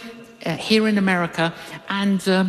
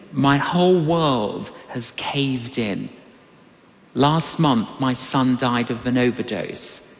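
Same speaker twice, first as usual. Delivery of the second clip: understated grief; 6 semitones lower than usual. Retold or imitated. Grieving woman quoted in story.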